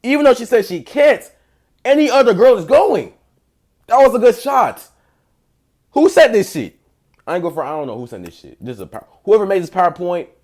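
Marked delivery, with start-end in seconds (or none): 0.4-6.8 loud hype. Acted.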